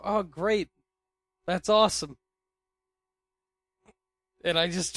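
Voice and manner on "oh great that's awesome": mock-cheerful brush-off; sarcastic. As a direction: fake enthusiastic, higher and louder. Fake enthusiasm to coworker.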